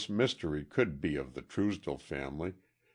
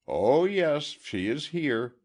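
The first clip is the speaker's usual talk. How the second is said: patient; 10 semitones higher, 6 dB louder than usual. A narrator's reading.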